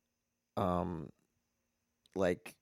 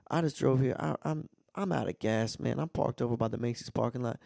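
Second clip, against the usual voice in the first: imitating the scammer's pitch; 5 semitones higher than usual. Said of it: "and he'll be like".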